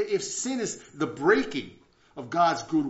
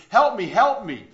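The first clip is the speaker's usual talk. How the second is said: high, loud acted plea; retold yell for help; 6 semitones higher, 13 dB louder than usual. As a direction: yell up from the pit, storyteller style. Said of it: "the man yells out".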